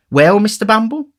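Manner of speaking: high, coaxing question; eager matron. Acted. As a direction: prompt him on eagerly.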